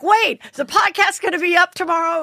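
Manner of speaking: high-pitched imitation of worried followers; mock-worried high voice; mock concern. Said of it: "they're all concerned".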